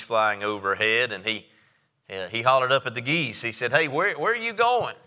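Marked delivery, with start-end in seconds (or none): 3.7-4.9 higher, lightly voiced little frog calling up. Frog hollering up at the geese overhead, higher voice. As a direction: call up to the birds as a small frog.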